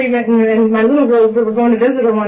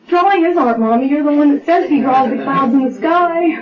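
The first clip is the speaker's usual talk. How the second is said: lightly voiced child, pitched higher; little daughter; 4 semitones higher than usual. Mother retelling her little girl's correction, in a lightly childlike higher voice. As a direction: imitate a small girl explaining, higher voice.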